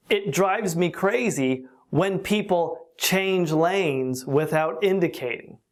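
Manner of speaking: slow and deliberate teaching read; slow example. Shown as a demonstration. Teacher giving learners an example sentence, slowly.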